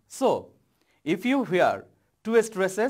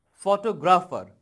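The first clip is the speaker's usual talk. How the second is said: "photographer" with GRAPH hit louder; one stressed syllable; 3 dB louder than usual. Shown as a demonstration. Teacher showing students word stress, GRAPH stressed in "photographer". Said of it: "stress one syllable in each word".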